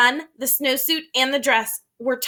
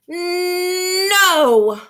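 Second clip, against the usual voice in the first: higher, drawn-out defiant no; stubborn child's no; 5 semitones higher, 4 dB louder than usual. Acted. Boy refusing his teacher, a high stubborn no. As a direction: dig in like a stubborn kid.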